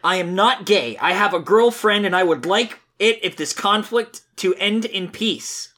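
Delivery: high, sing-song earnest Sonic. Acted. Reader voices Sonic defending his friend, high and earnest. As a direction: preach friendship in a high, naive hero voice. Reads Sonic's comic lines.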